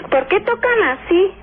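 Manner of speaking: high, slow, annoyed shout at the door; mock angry mother yelling at the door. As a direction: demand who's knocking, irritated and sharp. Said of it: "así enojada y molesta".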